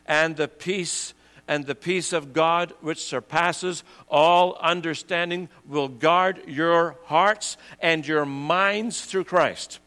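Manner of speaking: slowed, gentle scripture close; slow tender reading. Real, not acted. Preacher closing the verse for worried listeners, slow and tender. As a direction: ease into the verse slowly and tenderly.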